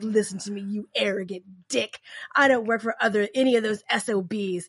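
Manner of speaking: forceful, commanding voice. Retelling a scene in which Trickster threatens Dean: imitating Trickster's commanding threat. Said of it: "a super daddy on him".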